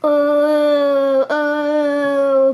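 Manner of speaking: loud hippo moan; loud aching moan. A narrator's reading. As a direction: groan while bumping downhill. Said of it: "moaned Hippo".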